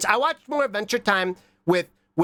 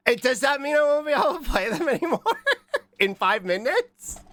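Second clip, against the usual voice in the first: dismayed disbelief; 8 semitones higher than usual. Real, not acted. Dismayed at demos ending.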